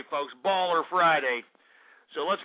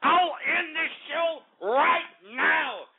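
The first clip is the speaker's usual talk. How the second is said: fed-up outburst; 5 semitones higher than usual. Real, not acted. Fed-up host threatens to end show.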